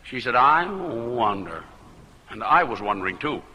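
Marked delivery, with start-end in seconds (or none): 0.3-1.6 slow, low and listless; mild droopy woman. Retold or imitated. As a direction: drag it like she can barely lift her eyelids. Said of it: "she talked just like she looked".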